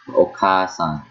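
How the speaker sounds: Okasan with the middle a held for two beats; long A sound. Shown as a demonstration. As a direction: draw out the a after k in Okasan. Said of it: "kept the A sound for two".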